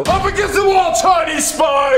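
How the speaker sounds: high, forceful shouted order; shouted arrest. Acted. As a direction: shout it like a raiding agent. Agent storms in on suspect.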